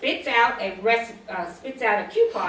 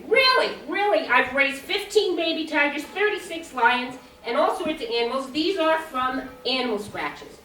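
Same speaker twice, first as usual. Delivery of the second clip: frustrated near-yell; 3 semitones higher than usual. Retold or imitated. Zookeeper explaining scratches to psychiatrist, frustrated near-yell. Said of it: "almost yell at him pretty loud".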